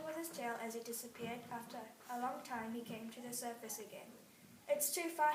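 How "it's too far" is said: gasping. Acted. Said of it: "he gasped".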